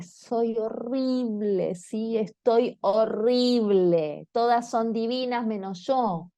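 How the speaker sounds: lenta y quejosa, un leve llanto imitado; imitá suavemente a una hija que llora, muy despacio; hija llorando. Retold or imitated. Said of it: "Viene llorando mi hija". (hija imitada, apenas llorosa y lenta)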